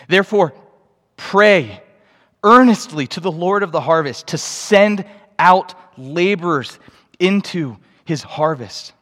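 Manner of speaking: emphatic close of a Bible reading; solemn charge, phrase by phrase; scripture reading. A narrator's reading. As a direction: weigh each phrase with deliberate pauses. Reads the passage's closing charge.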